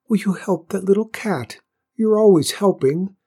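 high, small, admiring flower voice; bashful little admirer; shy whispering flower. A narrator's reading. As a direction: praise shyly in a tiny high stage whisper. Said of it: "in its shy, whispering voice".

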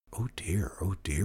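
soft worried whisper. A narrator's reading. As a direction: hush it, fretting quietly. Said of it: "whispered the cat and the yak".

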